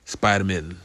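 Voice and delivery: "Spider-Man" as a surname, last syllable weakened; surname-like pronunciation. Shown as a demonstration. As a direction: say "Spider-Man" with an unstressed "mun" ending. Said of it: "Sounds like Jewish superhero".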